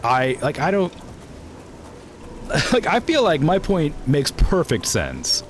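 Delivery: high, laughing disbelief; incredulous. Real, not acted. Friend dismisses her accent, high incredulous protest.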